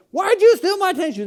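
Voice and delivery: high-pitched hollering at a sibling; mock sibling yelling. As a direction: yell it across the house in playful accusation. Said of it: "you're yelling at your brother or sister".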